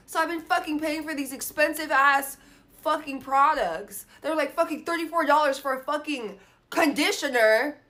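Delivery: venting about the price of products; getting pissed off. Real, not acted. Ranting to viewers about pricey conditioner, loud and fed up. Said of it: "I'm getting pissed off".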